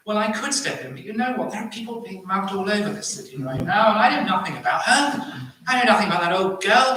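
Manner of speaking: rising, hammed-up excuse-making; self-justifying bystander. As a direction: play an indignant onlooker talking yourself out of helping. Acts a bystander making excuses not to help.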